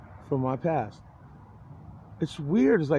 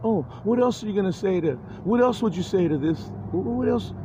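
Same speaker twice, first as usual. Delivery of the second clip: high, sneering "oh really" jeer; mocking taunt; 5 semitones higher than usual. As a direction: needle him like a smug heckler. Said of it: "it'll probably be saying".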